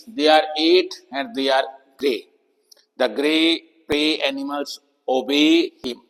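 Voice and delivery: very slow, word-by-word example reading; slow model sentences. Shown as a demonstration. Teacher reading example sentences slowly to the students. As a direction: spell out each word slowly for the class. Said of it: "कुछ sentence देख सकते हैं".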